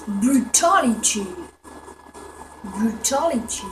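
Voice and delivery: slow, drawn-out fighting game announcer; slow mock announcer call; Mortal Kombat announcer. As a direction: boom it like the game voice. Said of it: "j'étais resté dans mon accent".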